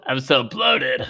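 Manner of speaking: drawn-out, slow teasing imitation of a friend; slow mimicked moan of complaint; mock complaint. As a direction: stretch the words slowly in mock suffering. Mocking friend's bloating complaint.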